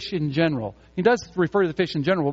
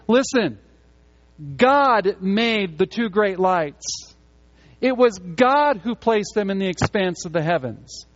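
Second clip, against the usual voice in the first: emphatic Moses proclamation; 3 semitones higher than usual. Acted. Preacher voices Moses to Israel.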